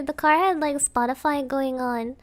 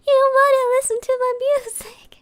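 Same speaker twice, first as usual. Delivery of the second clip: breathy, higher sulky whisper; 9 semitones higher, 5 dB louder than usual. Retold or imitated. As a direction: whisper it back, half pouting. Sulking reply to uncle.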